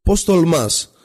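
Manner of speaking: mock fury, pitch leaping up; furious shout. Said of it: "φωνάζει ακόμα πιο δυνατά".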